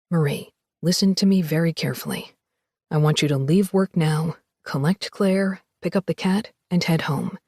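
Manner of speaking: low, urgent warning to his wife; tense and hushed, a man afraid; worried husband's message. Acted.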